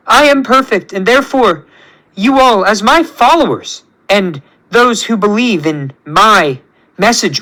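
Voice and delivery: lightly voiced self-proclaimed god; measured, self-important villain speech; grandiose tyrant creator. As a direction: proclaim each phrase like a demanding ruler.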